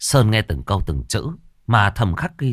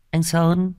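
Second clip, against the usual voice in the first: put-on young woman's call; 8 semitones higher than usual. Young sister-in-law calls him.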